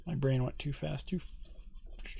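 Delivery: talking around a pen; words muffled by a pen; pen in mouth. Real, not acted. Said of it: "faster than my pen in my mouth".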